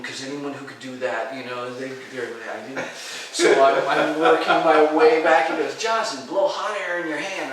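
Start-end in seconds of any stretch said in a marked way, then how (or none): 5.8-7.5 loud, raised-pitch retold order; commanding. Teacher instructing his wary student, loud retold command. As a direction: call out the instruction firmly.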